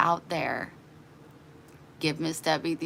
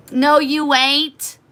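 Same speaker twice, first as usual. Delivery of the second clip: inner retort; 9 semitones higher, 9 dB louder, much slower than usual. Retold or imitated. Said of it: "but I didn't say anything".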